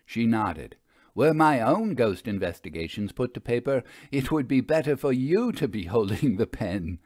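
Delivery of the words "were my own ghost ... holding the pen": a light chuckle through the words; amused, laughing a little at the idea; chuckling. Acted. Vera teasing the narrator about writing, chuckling. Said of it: "She chuckled at the notion".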